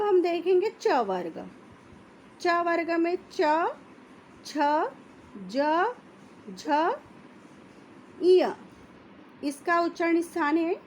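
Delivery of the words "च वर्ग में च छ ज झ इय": slow, each of च, छ, ज, झ, इय set apart; slow letter demo. Shown as a demonstration. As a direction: say च छ ज झ इय one at a time. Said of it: "आप इनको बोलेंगे". (तालु से धीरे-धीरे उच्चारण)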